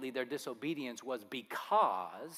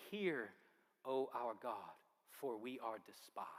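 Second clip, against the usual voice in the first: hushed prayer; 3 semitones lower, 3 dB quieter, slower than usual. Acted. Reading Nehemiah's prayer.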